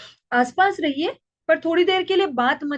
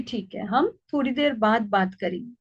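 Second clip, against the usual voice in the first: lovingly; 4 semitones lower than usual. Shown as a demonstration. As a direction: settle the child gently. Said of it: "उसको प्यार से कहिए कि". (प्यार से, धीमी और नरम आवाज़ में)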